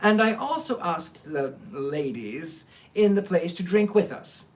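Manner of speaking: steady storytelling read-aloud; audiobook-style narration; story narration. A narrator's reading. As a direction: read the chapter to the listeners. Reads a book aloud to listeners.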